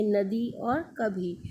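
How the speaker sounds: नदी and कभी drawn out slowly; slow example words. Shown as a demonstration. Teacher showing the long ई sign to students, slow. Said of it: "बड़ी में क्या होता है".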